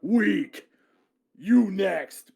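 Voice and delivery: a fighter gloating over a fallen foe; mocking battle taunt.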